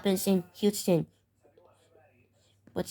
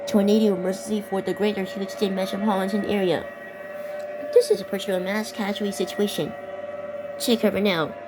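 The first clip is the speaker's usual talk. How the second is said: steady, urgent weather-bulletin read; emergency alert read. Acted. Gamer reads the tornado warning to viewers like a broadcast alert.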